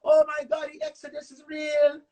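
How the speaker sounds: hammed-up hysterical mother crying out to God; frantic mother. Mother panicking that a girl put a spell on her son, shouting. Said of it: "my mother was like".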